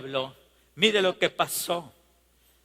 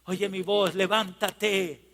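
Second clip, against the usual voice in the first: tender start building to a high, urgent cry; Dios pleading; 6 semitones higher than usual. Acted. God calling his stubborn child back, plea building to a cry. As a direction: begin gently, then climb into impassioned preaching. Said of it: "y nos dice".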